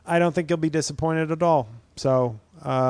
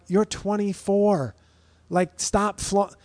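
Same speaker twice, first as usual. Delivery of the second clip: exasperated scolding; 6 semitones higher, slower than usual. Retold or imitated. Scolding a young TikTok mom.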